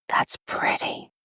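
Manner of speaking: slow awed whisper; hushed delight at the cheeks. Real, not acted. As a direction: breathe it out slowly in awe. Awed whisper at blush result.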